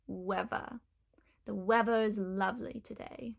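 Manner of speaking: "weather" said "wevva"; Cockney th-fronting. Shown as a demonstration. Teacher's example for viewers, "weather" as Cockney "wevva". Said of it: "will become weather".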